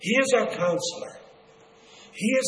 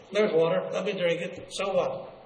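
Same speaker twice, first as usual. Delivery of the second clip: dismissive. Acted. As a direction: brush it off casually. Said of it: "they dismiss it with a comment".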